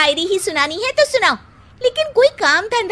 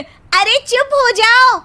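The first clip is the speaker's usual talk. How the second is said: exasperated hush; 5 semitones higher, 4 dB louder, slower than usual. Acted. Wife cuts off his poetry.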